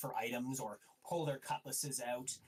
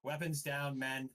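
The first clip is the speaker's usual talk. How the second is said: lightly acted order, a bit louder; commanding captain; 5 dB louder than usual. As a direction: order the crew to stand down. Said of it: "you hear".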